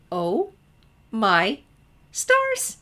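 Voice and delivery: high, loud gasping delight; gasped. Acted. Twilight gasps at Sunset's news, high and loud. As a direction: gasp it out, bursting with wonder. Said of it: "gasped Twilight".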